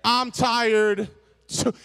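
huffy husband turning over; mad husband. Acted. Rebuffed husband turning away from wife, mad. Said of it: "And he's mad".

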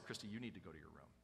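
restrained dad. Retold or imitated. Non-shouting father repeating his order to daughter, restrained and quiet. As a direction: give the order without any shouting. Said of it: "I'm not a screamer or a shouter".

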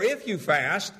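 "If" punched, rising; stress on if. Shown as a demonstration. Pastor contrasting for congregation, stress on if. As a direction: hit "If" as the wrong word. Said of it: "So he doesn't say".

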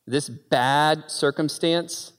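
ordinary talk, nothing marked

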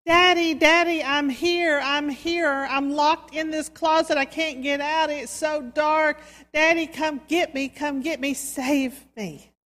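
high, loud, panicked calls for Daddy; child shouting for his father from a closet, frightened; frightened child yelling. A narrator's reading. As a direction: yell it like a scared boy locked in the dark. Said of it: "the boy started yelling".

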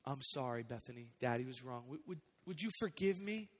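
hushed, tender father's apology; a father softly asks his little daughter's forgiveness; soft apology to toddler. Retold or imitated. A father apologizing to his two-year-old, soft and tender.

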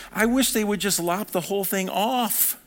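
high, worked-up exasperation; fired-up outburst. Acted. Preacher as Paul fed up with the circumcision party, fired up. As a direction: blurt it out, heated. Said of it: "he was so fired up".

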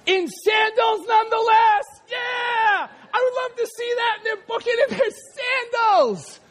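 high, whooping amazement; excited shout. Real, not acted. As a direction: cry out in delighted disbelief. Amazed outburst about the run.

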